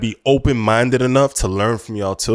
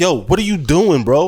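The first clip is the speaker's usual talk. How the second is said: acted-out everyday mild yell, pitched up; 6 semitones higher than usual. Retelling what is said to a student who wilded out: own yell, retold. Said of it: "that's how I yell".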